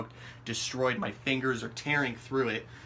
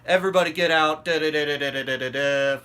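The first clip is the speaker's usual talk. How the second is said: shouted order; 3 semitones higher, 7 dB louder than usual. Retold or imitated. Hostel staff kicking everyone out, shouted order. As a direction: mimic staff yelling everyone awake.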